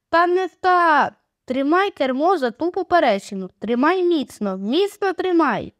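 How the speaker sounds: frustrated captain shouting orders; urgent correcting shout. Acted. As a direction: bark the correction at a friend struggling with the oar. Rick yelling at the steersman.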